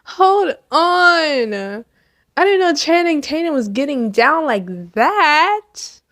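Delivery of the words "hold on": high, cracking mock shriek; shocked disbelief. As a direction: squeal as if you can't believe it. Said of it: "I was like".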